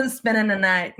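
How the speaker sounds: put-on laughing echo in a light Southern accent; Southern drawl. Echoing the co-host's meme line, amused Southern accent. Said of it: "like, Southern".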